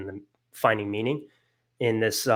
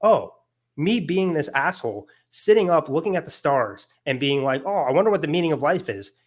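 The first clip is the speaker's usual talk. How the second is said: mock realization; 3 semitones higher than usual. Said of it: "journey to realize".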